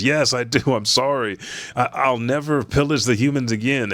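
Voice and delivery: hammed-up frightened apology; mock begging. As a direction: plead for mercy, lightly acted. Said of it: "begging for his fucking life".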